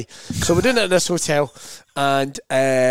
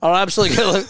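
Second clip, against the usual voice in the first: lively Nairn councillor, slightly raised pitch; strong Nairn accent; 4 semitones higher than usual. Retold or imitated. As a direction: put on a thick Nairn accent. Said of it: "strong Nairn accent".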